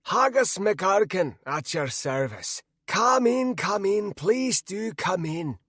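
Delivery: put-on high, slow, welcoming old man; affable old mage. A narrator's reading. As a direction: usher a guest in affably. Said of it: "he said affably".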